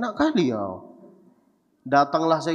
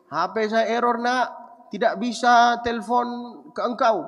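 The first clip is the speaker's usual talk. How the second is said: higher, a hammed-up pleading old father; old father's plea; 8 semitones higher than usual. Father hinting to his rich son, hammed-up higher plea. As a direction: overplay the poor father's hint.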